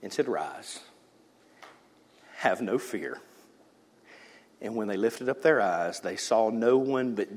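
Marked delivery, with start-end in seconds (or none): 0.3-3.2 low, soft and gentle; tender. Acted. Jesus to the terrified disciples, tender and low. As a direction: lift them up gently. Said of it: "with a tender hand".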